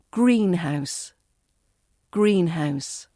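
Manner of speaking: GREEN stressed, house lighter, falling; weight on "green" in greenhouse; first-word stress. Shown as a demonstration. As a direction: model greenhouse clearly with a strong first word. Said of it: "R P stress on the first word".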